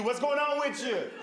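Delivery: high, lively old-lady impression; old black lady. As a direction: play an older woman greeting with big energy. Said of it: "old black lady".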